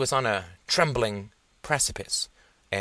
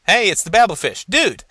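calling out; 11 semitones higher, 10 dB louder than usual. Acted. Gus calls out across room.

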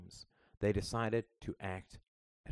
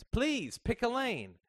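high, exasperated mom; 3 dB louder, slower than usual. A narrator's reading. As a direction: roll your eyes at the kid. Mother exasperated.

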